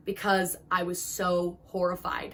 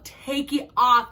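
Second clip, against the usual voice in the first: sobbing plea; 4 semitones higher, 7 dB louder, much slower than usual. Retold or imitated. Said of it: "hysterical sobs of".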